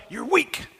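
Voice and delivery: usual speaking voice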